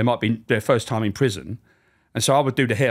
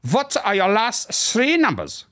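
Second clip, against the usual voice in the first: high, slow German camp officer voice; hammed-up German guard questioning a prisoner; mock German officer; 10 semitones higher, slower than usual. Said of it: "walk around with a clipboard and a limp".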